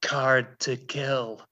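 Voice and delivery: slow, soft Irish lilt; Irish accent. Retold or imitated. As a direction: drawl it in a light Irish accent. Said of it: "Again, Irish".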